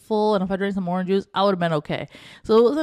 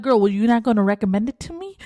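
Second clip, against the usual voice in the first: quick, sassy challenge; sassy call-out; 3 semitones higher, 3 dB louder, faster than usual. Retold or imitated. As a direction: tease the agent pointedly. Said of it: "I'm like".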